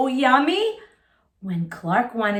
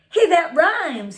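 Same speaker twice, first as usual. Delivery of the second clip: high and loud delighted discovery; light up, it's a great find; excited cry; 6 semitones higher, 5 dB louder than usual. Acted. Clark discovering his rhyme, high excited cry. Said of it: "he cried".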